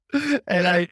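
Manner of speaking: ordinary delivery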